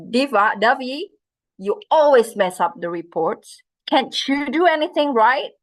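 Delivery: a scolding boss's reproach; angry scolding. Acted. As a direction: blame her for the messed-up reports. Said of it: "How do you feel about that".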